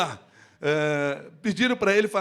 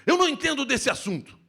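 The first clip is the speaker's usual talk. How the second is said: louder, higher, stressing não; insistent, raised voice; emphatic; 8 semitones higher, 5 dB louder than usual. Shown as a demonstration. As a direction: say it forcefully, hitting não. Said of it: "Eu posso dizer para vocês assim".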